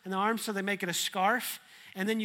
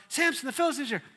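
mock alarm; 5 semitones higher, faster than usual. Delilah alarm again.

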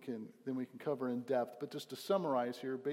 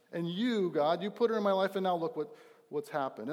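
higher, louder accusing complaint; Adam blaming God; 4 semitones higher, 5 dB louder than usual. Retold or imitated. Pastor voices Adam blaming God for the woman. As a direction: point the finger at God. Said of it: "he's blaming God here".

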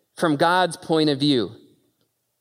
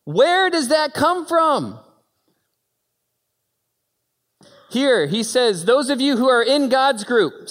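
preaching at full force; 10 semitones higher, 4 dB louder than usual. Real, not acted. Preacher to congregation about pain, full-force preaching. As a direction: pound it home to the crowd.

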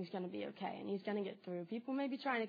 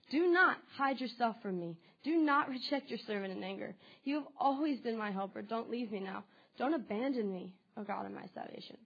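scripture reading. Acted. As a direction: read the plea as a prayer to God. Reading a pleading psalm.

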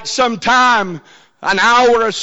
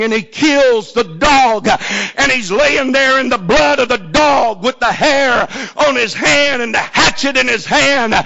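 usual speaking voice

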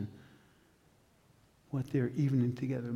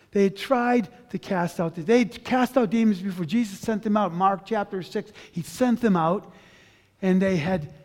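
fervent preaching; 4 semitones higher, 7 dB louder than usual. Real, not acted. Preaching rising to full force.

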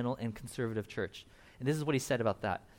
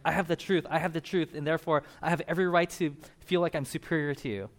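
mock arrogance. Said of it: "they get this arrogance".

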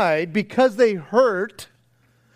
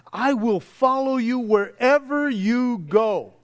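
earnest vow; 3 semitones higher than usual. Retold or imitated. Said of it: "he is telling him".

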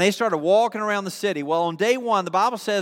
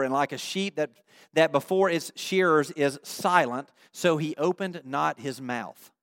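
lower, softer, measured reading; solemn scripture reading; 4 semitones lower, 4 dB quieter than usual. Real, not acted. Preacher reads Isaiah on Jesus' silence, solemn reading. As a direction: read the verse with quiet gravity.

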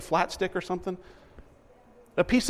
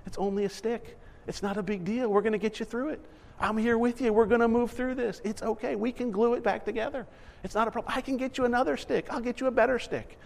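softer, soothing comfort; calm a crying child softly; a parent soothing over a broken stick; gentle reassurance; 4 semitones higher, 4 dB quieter than usual. Retold or imitated. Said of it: "And he's going".

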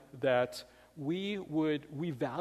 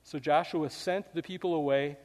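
scripture reading. Acted. The pastor reads Joshua's covenant to the church, solemn. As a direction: read the passage to the congregation with gravity.

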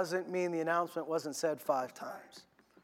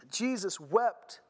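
slow; 2 semitones higher, much slower than usual. Acted. Slow emphasized scripture line.

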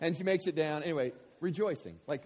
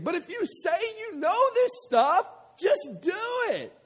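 much higher and louder, punching it out; forceful preaching; 8 dB louder than usual. Acted. Preacher applying the girl's words to the congregation, loud preaching. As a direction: hammer the lesson home. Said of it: "preaching the same line".

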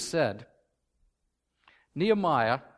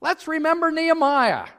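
Claire Davis quote; 6 semitones higher, 5 dB louder than usual. Retold or imitated. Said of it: "he would always say".

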